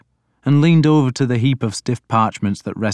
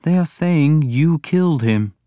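mild voice pitched higher; 6 semitones higher than usual. A narrator's reading. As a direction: put the accusation mildly, pitch lifted. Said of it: "Alfred went on mildly".

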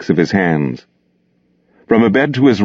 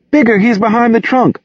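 whimpering. Acted. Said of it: "the girl whimpered".

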